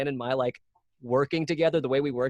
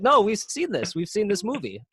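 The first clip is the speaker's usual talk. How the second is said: insistent fans; 7 semitones higher than usual. Retold or imitated.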